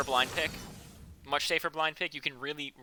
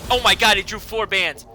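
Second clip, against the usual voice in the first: loud, higher shock; surprised; 5 semitones higher, 8 dB louder than usual. Real, not acted. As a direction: blurt out the surprise. Caster surprised by bans.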